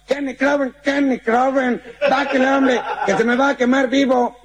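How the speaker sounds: high plea broken by laughter; laughing pleading. Acted. Fireman begging the American to come down, laughing. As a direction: beg him down while cracking up.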